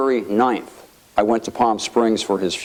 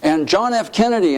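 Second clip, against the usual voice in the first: higher-pitched, retold marvelling; Sonny in awe; 8 semitones higher than usual. Congressman naming great predecessors to his friend, awed. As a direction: imitate someone awed by great names. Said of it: "he was just in awe of the institution".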